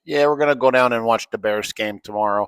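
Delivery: flat Midwestern Chicago accent. Shown as a demonstration. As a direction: talk like a Chicago Bears fan. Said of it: "Chicago accent".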